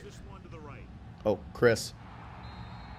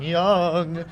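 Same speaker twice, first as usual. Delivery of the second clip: called out high; 5 semitones higher, 3 dB louder than usual. Real, not acted. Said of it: "Why did I say his name like that?".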